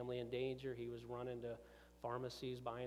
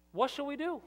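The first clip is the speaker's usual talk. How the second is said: much higher, louder "What shall we do?"; emphatic repeat; 13 semitones higher, 7 dB louder than usual. Acted. Pastor repeating the crowd's question, louder and higher. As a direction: hurl the question back at them. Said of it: "repeated for emphasis".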